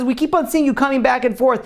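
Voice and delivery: high-pitched retold rebuke; indignant soldier. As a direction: scold him with the pitch held high. Soldier confronting the crying smuggler.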